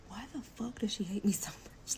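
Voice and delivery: whispered exasperated question; whispering her frustration about the baby mama; frustrated whisper. Retold or imitated. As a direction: whisper it, baffled and fed up. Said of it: "I'm like".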